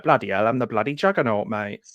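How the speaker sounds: a light mock Cockney, hard on bloody; Vinnie Jones Cockney. Mocking an actor's bad Cockney to his friend, lightly done. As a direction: lightly take off a tough London geezer. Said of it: "Vinnie Jones".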